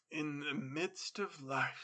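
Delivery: slow, solemn mock piety; a hypocrite's pious murmur, slowly; kinda pious. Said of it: "kinda pious".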